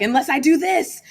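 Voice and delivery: high, loud playful threat; mock-daring mom, loud and high; retold teasing. Teller acts out teasing with window.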